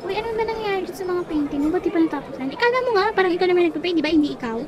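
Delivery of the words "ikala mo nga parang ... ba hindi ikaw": touchy classmate's comeback; defensive, angry. Acted. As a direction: hit back, mildly riled. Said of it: "Bakit galit na galit? So defensive".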